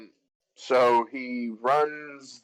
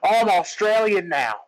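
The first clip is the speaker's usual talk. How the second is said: higher, hammed-up Cockney turned Australian; bad Cockney-Australian accent; 7 semitones higher, 4 dB louder than usual. Imagining Bert turning up in the movie, hammed-up Cockney-Australian accent. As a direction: do Bert's terrible Cockney sliding into Australian. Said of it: "if he was in this movie, he'd be like".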